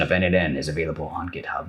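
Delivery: lightly put-on late-night radio DJ; a hint of smooth radio host, joking. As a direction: do a playful, understated late-night DJ voice. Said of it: "That's my late night D J radio voice".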